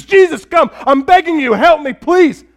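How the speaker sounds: a woman in the street begging Jesus for help; calling out. Retold or imitated. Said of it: "this woman calling out to Jesus".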